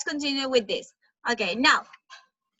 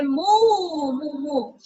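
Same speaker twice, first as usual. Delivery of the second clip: cow moo; much slower than usual. Shown as a demonstration.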